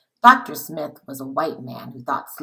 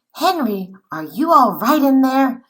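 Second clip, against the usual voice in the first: higher, louder call through the crate; calling into the box; 8 semitones higher, 6 dB louder than usual. Acted. Friends knocking on the crate, calling to Henry inside. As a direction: call anxiously through the wood.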